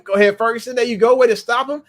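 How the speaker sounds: loud, high cheers for the stop; cheering. Real, not acted. Fan cheering Ferguson's tackle live, loud and high. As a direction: shout encouragement at the screen.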